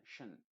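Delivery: "shen" as a short "sh" plus "en"; shen ending. Shown as a demonstration. Teacher showing how "tion" sounds. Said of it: "luego la O y la N".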